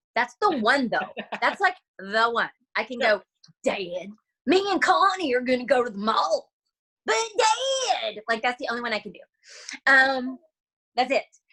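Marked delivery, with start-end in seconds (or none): 3.7-8.2 put-on cartoon boy voice, "dad" stretched out, swooping pitch. Showing the one funny voice they can do, a Bobby Hill voice. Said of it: "I can kind of do Bobby Hill".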